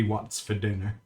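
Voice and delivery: quiet doll-like catchphrase; toy catchphrase voice. Retold or imitated. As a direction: say it like a talking toy. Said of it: "one of them would be, catchphrases".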